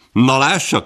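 a loud, vindicated exclamation; triumphant cry. Acted. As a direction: call out in triumph. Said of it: "kiáltotta Wilson".

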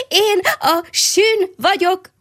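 the hedgehog cries out his name again, high, slow and stretched out; joyful call. A narrator's reading. The little hedgehog calls his new name to all the passing animals, high and slow. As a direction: sing out "sün" high and long, full of joy. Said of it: "mindenkinek oda kiáltotta".

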